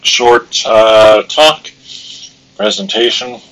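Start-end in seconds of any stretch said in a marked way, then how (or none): 0.0-1.7 talking through hiccups; words jolted by hiccups. Real, not acted. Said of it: "you may hear hiccuping sounds".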